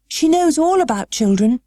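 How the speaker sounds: put-on high girlish voice, blurting; can't help saying it; girl Mary. A narrator's reading. Mary defending Mrs Sowerby, high girlish blurt.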